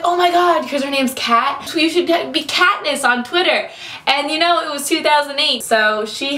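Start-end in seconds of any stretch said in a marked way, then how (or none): 0.0-3.7 excited suggestion. Retold or imitated. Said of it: "I was like".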